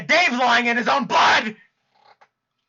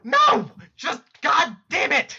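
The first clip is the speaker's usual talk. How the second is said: loud exasperated outburst; exasperated yell; 4 semitones higher, 3 dB louder, slower than usual. Acted. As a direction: blow up in frustration. Exasperated outburst at sobbing friend.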